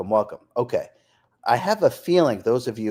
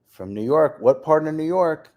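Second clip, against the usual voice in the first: playful New York accent, higher on the question; 3 semitones higher, 3 dB louder than usual. Shown as a demonstration. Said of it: "I'll throw my accent in there".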